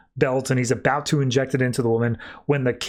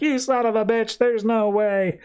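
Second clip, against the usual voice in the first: retold outrage; 8 semitones higher than usual. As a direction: act out indignant disbelief, stretching the end. Acted outrage at the revelation.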